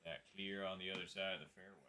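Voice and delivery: talking with something in mouth; mouth full. Real, not acted. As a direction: say it around a mouthful. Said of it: "Sorry, something in my mouth".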